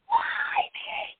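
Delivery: high strained wail of despair; anguished cry. Retold or imitated. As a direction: cry out to the sky, far above your voice. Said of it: "And I was like".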